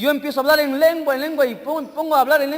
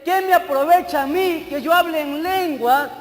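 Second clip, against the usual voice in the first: higher-pitched, deliberate verse reading; emphatic scripture reading; 3 semitones higher than usual. Real, not acted. Preacher repeats verse six to listeners, emphatic reading. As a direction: read it out slowly for them to grasp.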